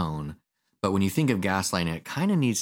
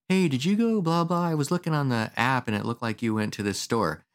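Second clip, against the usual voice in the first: innocent curious question; 5 semitones higher than usual. Retold or imitated.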